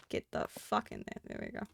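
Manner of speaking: hushed forceful whisper. Real, not acted. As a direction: whisper it through effort. Forcing block into place.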